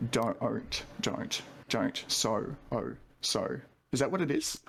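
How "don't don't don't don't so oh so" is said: "don't" and "so" repeated slowly to show the Australian O; Australian O demonstrated. Shown as a demonstration. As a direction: break down the O in "don't" and "so". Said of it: "we pronounce the O".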